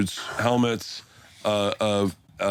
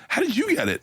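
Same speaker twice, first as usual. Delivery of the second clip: mock squeaky question; 12 semitones higher than usual. Bert retells his own question.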